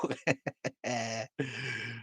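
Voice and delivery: amused, drawn-out laugh; long laugh. Real, not acted. Host amused at not knowing where Idaho is, laughing. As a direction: laugh at your own question.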